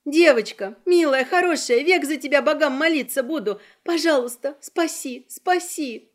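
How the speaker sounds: put-on the daughter-in-law begs the girl to save them; desperate pleading. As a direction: beg for your life. Woman begging for rescue.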